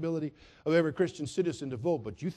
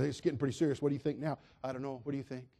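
quiet dithering disciples; 5 semitones lower, 6 dB quieter, much faster than usual. Acted.

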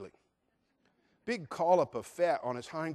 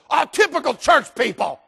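a hint of a sneering wife, pitched higher; scoffing wife; 11 semitones higher, 14 dB louder than usual. Wife sneering at the pastor, lightly voiced scorn. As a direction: toss it off with disdain.

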